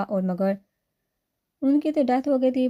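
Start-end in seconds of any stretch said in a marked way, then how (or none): 1.6-2.7 shocked, higher and louder disbelief; surprised. A narrator's reading. Sister hearing her dead parents are alive, stunned. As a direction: gasp it out in shock. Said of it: "وہ حیران ہو کر بولی".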